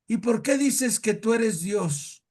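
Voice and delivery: imitated angry challenge, drawn out; annoyed priest. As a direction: demand it as an offended priest. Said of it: "bien enojado y le dice".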